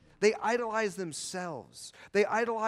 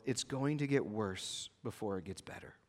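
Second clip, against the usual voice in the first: softer, lower and grave; hushed; 8 semitones lower, 7 dB quieter than usual. Real, not acted. Pastor warns the congregation gently, hushed and grave. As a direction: let the hard truth sink in quietly. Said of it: "the greatest pastoral thing I can tell you".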